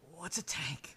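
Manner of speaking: slow, puzzled; dim drunk. Acted. Skag asks Rev what a tank is, puzzled. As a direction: ask like it's a new word. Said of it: "he goes".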